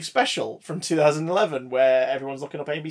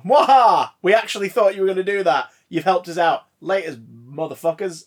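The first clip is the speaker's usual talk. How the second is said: gloating cartoon villain with an evil laugh; smug villain cackling at the heroes; mustache twirling villain; 3 semitones higher, 6 dB louder than usual. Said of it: "as the bad guys go".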